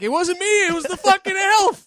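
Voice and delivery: high-pitched, loud and whiny; high squeaky protest. Pretend. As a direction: squeal it out like a cornered kid. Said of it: "I'm like".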